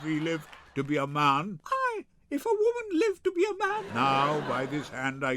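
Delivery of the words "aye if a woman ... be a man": high, scornful jab; mocking retort. Wife mocks husband's excuse, high and scornful. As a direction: throw his words back at him with scorn.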